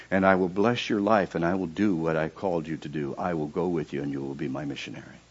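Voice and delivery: a hint of a solemn God speaking; voice of the Lord. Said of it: "And the Lord said".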